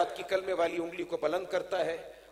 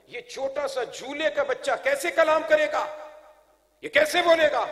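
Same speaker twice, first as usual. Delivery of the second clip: higher, raised incredulous challenge; declaimed mock disbelief; objecting crowd; 9 semitones higher, 9 dB louder than usual. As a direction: question her as the doubting people. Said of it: "لوگ اعتراض کر رہے تھے".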